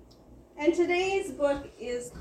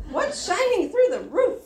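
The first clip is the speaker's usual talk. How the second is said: startled animals; 2 semitones higher, 6 dB louder than usual. Acted. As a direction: play a barnyard in a sudden uproar. Woken animals all talk at once.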